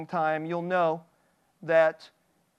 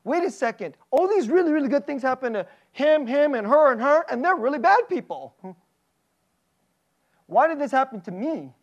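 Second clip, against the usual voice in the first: indignant self-pity; 4 semitones higher, 3 dB louder than usual. Retold or imitated. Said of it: "Isn't there like".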